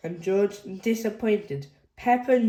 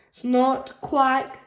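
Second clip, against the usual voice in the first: higher, louder snort and quack; excited George; 6 semitones higher, 4 dB louder than usual. A narrator's reading. George jumping about, excited snort and quack. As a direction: bounce the noises out like a toddler. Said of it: "says George".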